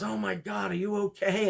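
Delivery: high, loud, alarmed woman; mock-worried lady, high and loud; lady's concern. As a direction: squeal it like a startled shopper. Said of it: "She goes".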